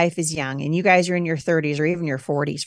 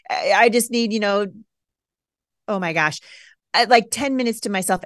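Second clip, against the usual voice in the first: pleading exasperation; 3 semitones higher than usual. Retold or imitated. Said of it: "I'd be".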